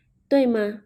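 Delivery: 对吗 with a clear rising question tune. Shown as a demonstration. Teacher showing students the rising tone on 对吗. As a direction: lift the end of 对吗 like asking. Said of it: "you will have that kind of questioning tone".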